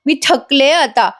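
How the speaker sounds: slow, weary mock sob of defeat; imitating crying. Priya begging Nagraj and Mahipat, half-crying. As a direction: plead as if crying, hands folded. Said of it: "रडायला लागते".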